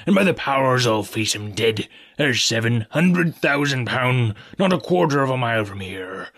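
brave it out before the frightened crew; defiant pirate captain. Acted. Silver rallies the scared crew.

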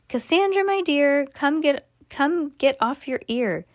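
very high sing-song jester voice. A narrator's reading. Jester waking Cassandra, high and sing-song. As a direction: coax her up like a jester.

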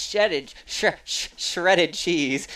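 stumbling through a mouthful of gum; tongue tripping over chewing gum. Real, not acted. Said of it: "I don't know why I'm talking like that".

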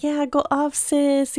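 retold hype. Acts out cheering on at first.

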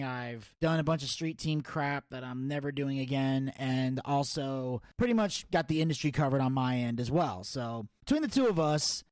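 brisk announcer-style show rundown; podcast host intro. Acted. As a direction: read it like a wrestling show host.

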